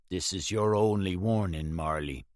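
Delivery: quiet, cold and calm; a level warning, no need to raise it. Acted. Clay warning Marley with a gun to his head, calm and quiet. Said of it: "he said calmly".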